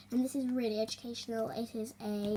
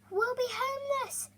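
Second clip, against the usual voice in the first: sobbing; 12 semitones higher than usual. Acted. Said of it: "sobbed Harvest Mouse".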